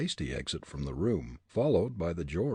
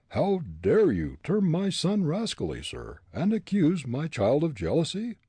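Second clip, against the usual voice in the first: raised, indignant captain; 9 semitones higher, 6 dB louder than usual. A narrator's reading. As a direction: bristle with offence.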